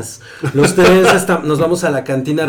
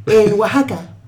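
put-on little kid voice; 6 semitones higher, 3 dB quieter than usual. High voice telling childhood.

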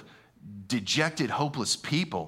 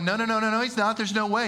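scoffing disbelief; 6 semitones higher, faster than usual. Retold or imitated. Men refusing to believe.

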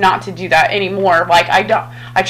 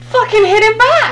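fierce command; 13 semitones higher than usual. Retold or imitated. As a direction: bark it at your daughter. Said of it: "And I said".

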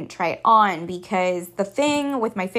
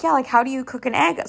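put-on clueless girl voice; 5 semitones higher than usual. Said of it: "she's like".

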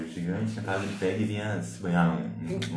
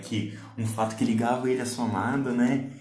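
laughing; 4 semitones higher, 5 dB louder than usual. Real, not acted. Laughing after awkward moment.

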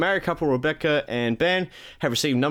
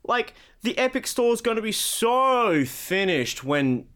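much higher, cocky boasting voice; mock Randy Pitchford; 8 semitones higher, slower than usual. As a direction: brag like a cocky boss. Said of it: "he's gone".

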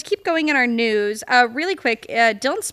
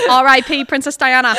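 laughing; 7 dB louder than usual. Real, not acted. Laughing quote of TikTok audio.

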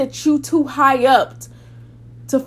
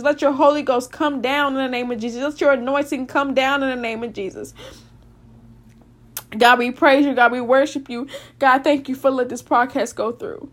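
earnest prayer rising into preaching; closing prayer. Real, not acted. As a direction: pray over the listeners, building in fervour. Closing prayer over listeners.

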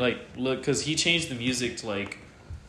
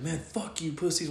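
mock defiance, pitched up without shouting; retold parting insult; 5 semitones higher, slower than usual. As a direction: toss it off as his parting shot. Imitating son's parting insult.

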